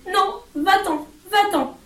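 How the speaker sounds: high, slow, desperate shooing; frightened pleading. A narrator's reading. Hermione pleads with the cat to leave, frightened. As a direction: beg the cat to go away.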